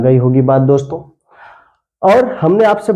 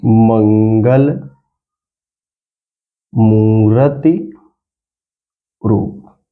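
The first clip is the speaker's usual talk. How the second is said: slow dictation; 5 semitones lower, much slower than usual. Shown as a demonstration. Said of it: "हम आपको एक line लिख के दिखा दे रहे हैं".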